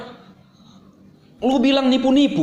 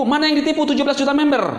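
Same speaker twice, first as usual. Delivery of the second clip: heated retort; 5 semitones higher, faster than usual. Real, not acted. Vlogger to his pastor critic, a fast heated demand. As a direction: fire the question back at him, fast. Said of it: "Saya nggak marah. Intonasi ini".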